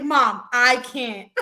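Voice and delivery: slow, drawn-out mock kid whine; whiny kid. Mom imitates her son Andrew watching stuff, slow whiny kid voice. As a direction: drag it out like a bored kid. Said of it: "You gotta hear Andrew".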